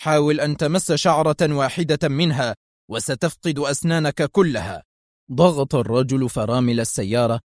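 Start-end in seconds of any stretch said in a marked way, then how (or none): 0.0-4.8 angry. Acted. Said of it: "هتف به شريف في غضب".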